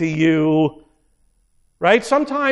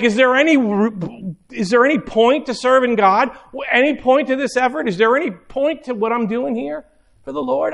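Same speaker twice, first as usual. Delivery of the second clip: higher-pitched, pleading doubt; exasperated questioning; 4 semitones higher than usual. Acted. Believer questioning his effort for the Lord, exasperated. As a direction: press each question in mild despair.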